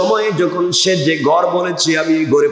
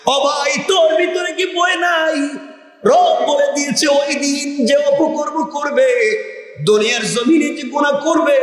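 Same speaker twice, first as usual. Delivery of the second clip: high, ringing sermon cry; impassioned preaching; 9 semitones higher than usual. Acted. Preacher warning a brother about Judgement Day, impassioned high cry. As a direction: cry out the warning high, holding the line endings.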